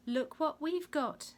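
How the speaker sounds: high, loud, slow soldiers' call. A narrator's reading. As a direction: call out to the others with mocking show. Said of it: "they called out".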